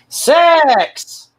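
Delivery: mock shout of one word. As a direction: blurt it out to shock the room. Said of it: "he turns around and goes".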